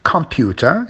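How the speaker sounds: Computer with COM stressed; COM-puter, as a stress demo; stress on first syllable. Shown as a demonstration. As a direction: lean on the start of Computer. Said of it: "it's at the beginning".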